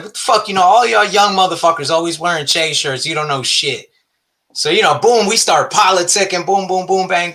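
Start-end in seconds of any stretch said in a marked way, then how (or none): 0.0-3.9 higher-pitched mock scolding; retold aggressive rant. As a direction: imitate an indignant stranger telling off youngsters. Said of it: "all aggressive".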